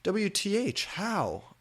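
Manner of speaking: high, loud hammed-up shriek; mock scream. A narrator's reading. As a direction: shriek it at the teacher. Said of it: "I screamed".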